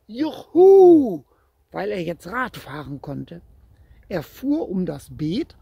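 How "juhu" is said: high, loud whoop of delight; joyful shout. A narrator's reading. Boy cheering as his bike finally rolls, loud joyful whoop. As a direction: cheer it out like a kid who just learned to ride. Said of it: "Er lachte ganz laut und schrie".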